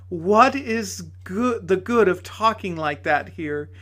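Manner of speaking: a lightly voiced amused lady; lady's voice. Lady talks to Frank.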